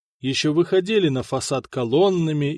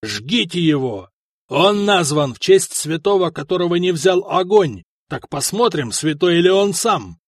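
furious shouting; 4 semitones higher, 5 dB louder than usual. Acted. Enraged prefect orders burning.

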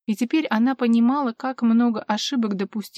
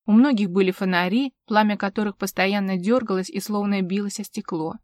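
usual speaking voice

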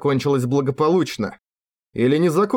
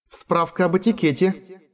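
high, cooing reference voice; cooing info system; 5 semitones higher than usual. A narrator's reading. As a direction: coo it like a polite machine. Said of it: "проворковала". (воркующая справочная система)

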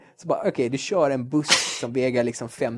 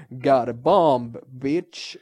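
slow, louder hammed-up hero shout with a put-on voice; yelled action one-liner; 4 dB louder, much slower than usual. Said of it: "man ska ju aldrig skrika". (överspelat, högt actionhjälteskrik)

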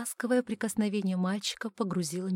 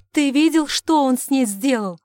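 loud, much higher alarmed question; distraught outburst; 5 semitones higher, 12 dB louder than usual. Acted. Distraught husband asking about his wife, loud alarm.

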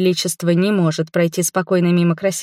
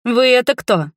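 put-on higher, inquisitive young man's question; curious; 5 semitones higher, 3 dB louder than usual. A narrator's reading. Youth to the stranger in the park, curious. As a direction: ask with open curiosity. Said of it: "полюбопытствовал юноша".

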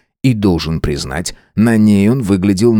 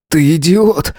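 hoarse retort; 8 semitones higher, slower than usual. A narrator's reading. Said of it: "прохрипел я".

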